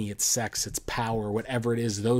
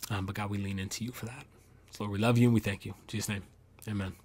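closing prayer. Acted. Pastor praying over his friends, a softening prayer. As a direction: pray over the group, settling into a hush.

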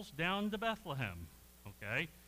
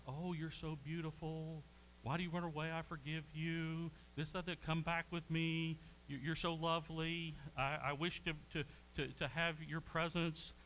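tender words. Retold or imitated. Priest wooing the runaway concubine, mock tender. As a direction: sweet-talk her, half joking. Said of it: "he speaks beautiful words to her".

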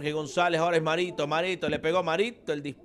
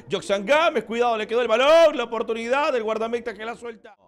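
breakneck goal commentary; 3 semitones higher, 4 dB louder, faster than usual. Real, not acted.

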